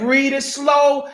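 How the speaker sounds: slow, each word spaced out; "Read it slow" drawn out and patient; slow, deliberate. Shown as a demonstration. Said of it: "I just said".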